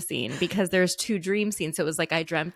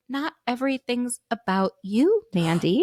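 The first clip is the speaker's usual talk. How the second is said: mom scolding; 5 semitones higher, 3 dB louder than usual. Retold or imitated. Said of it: "And Mom was like".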